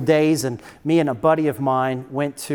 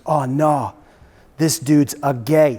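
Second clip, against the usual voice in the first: put-on lightly slurred drunk guy; slower than usual. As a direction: slur it like a drunk, drawn out at the end. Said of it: "with a slur in his voice".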